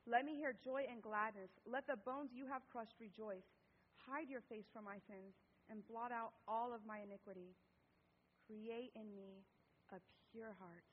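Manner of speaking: measured, solemn psalm reading with pauses; scripture reading. Acted. Reading David's psalm of repentance to a congregation, solemn. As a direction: read it as a humble prayer of confession.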